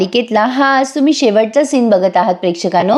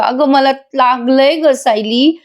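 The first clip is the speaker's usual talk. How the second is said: fed-up husband; 2 semitones higher, slower than usual. Retold or imitated. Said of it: "वैतागून म्हणतो".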